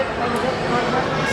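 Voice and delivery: slowly stretched "What time is it"; slow, drawn out. Real, not acted. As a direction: drag out every word.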